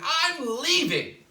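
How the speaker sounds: high, loud, slow shout; monster shout. Acted. Big monster fleeing the kisses, a high loud slow shout. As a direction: wail it as you flee. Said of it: "a big monster shouted".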